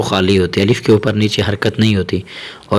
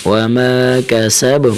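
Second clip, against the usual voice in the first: very slow, melodic recitation; Quran recitation; 2 semitones higher, much slower than usual. Shown as a demonstration. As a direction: chant it slowly and melodically. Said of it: "recites the verse end".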